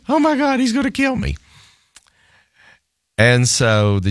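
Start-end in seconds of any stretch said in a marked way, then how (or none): 0.1-1.4 high, mock-scared inner voice; lightly hammed-up dread; mock panic. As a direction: play up the fear of the furious lawyer. Fears angry opposing lawyer.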